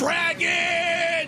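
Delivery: high shouted dragon cry; dragon shriek. Acted. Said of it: "You wanna hear my dragon impression?".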